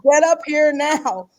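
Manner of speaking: mother yelling for her son to come upstairs, urgent call. Retold or imitated. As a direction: shout his name up the stairs. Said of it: "I screamed my son's name".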